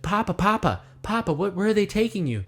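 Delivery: high-pitched little bear calling papa; Baby Bear. Acted. Baby Bear calling after his arrested papa, high and pleading. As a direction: plead up high as a worried cub. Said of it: "Baby Bear's like".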